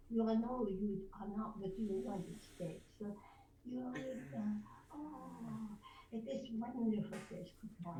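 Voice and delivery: broadcast French dialect; cartoon French-accented English. Shown as a demonstration. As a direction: make it just so French. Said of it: "French dialect".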